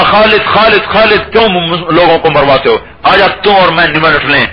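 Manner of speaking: high, taunting challenge across the field; challenging call. Retold or imitated. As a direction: call the enemy general out to duel. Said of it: "اس نے کہا". (دشمن سردار کی اونچی للکار)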